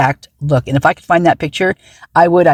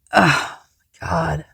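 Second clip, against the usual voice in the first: whispered; 6 dB quieter, slower than usual. Real, not acted. Horrified aside under breath.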